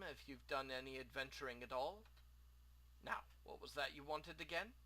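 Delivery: lightly voiced eager merchant; a hint of chatty shop owner; friendly shopkeeper. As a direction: greet a customer with mild theatrical lift. Plays the shopkeeper.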